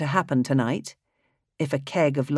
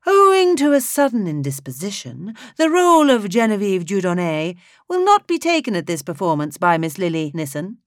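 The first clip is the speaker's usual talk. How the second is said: much higher, sing-song theatrical conductor; high, mellifluous voice; 5 semitones higher, 5 dB louder than usual. Acted. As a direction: croon the greeting like a showman. Conductor announces cast change.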